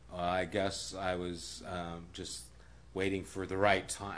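lightly acted sheepish stalling; hesitant defendant. Retold defendant hesitating before judge.

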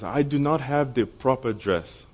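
imitated thick Ghanaian accent, slow and careful; a boy's thick Ghanaian accent, measured delivery. Ghanaian boy explains why he can't come, thick accent. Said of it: "in his very thick accent".

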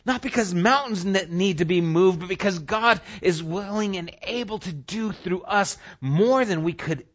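high, loud sermon delivery; impassioned preaching. Real, not acted. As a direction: preach it urgently at full force. Preaches at full force.

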